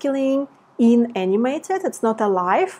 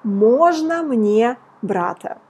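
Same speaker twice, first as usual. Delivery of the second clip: slow model phrase; slower than usual. Shown as a demonstration. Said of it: "you want to say".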